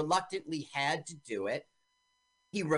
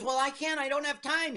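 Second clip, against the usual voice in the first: retold excuse; 11 semitones higher than usual. Acting out character refusing an errand.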